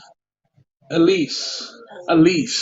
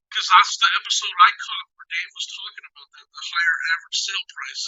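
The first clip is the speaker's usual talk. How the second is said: wonky audio; 5 dB quieter than usual. Real, not acted. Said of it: "your sound just went wonky".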